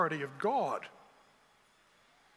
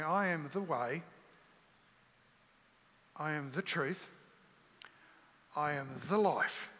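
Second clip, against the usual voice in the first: as if said for the first time; 2 semitones lower than usual. Shown as a demonstration. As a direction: let every phrase land like you never heard it. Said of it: "as though you hear it for the very, very first time".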